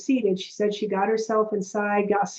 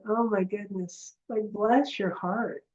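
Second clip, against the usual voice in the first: much softer, slower aside; inner pity; 6 dB quieter than usual. Retold or imitated. Coach thinking about the client, soft and slow with pity. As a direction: murmur it tenderly to yourself. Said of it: "in my head, I'm going".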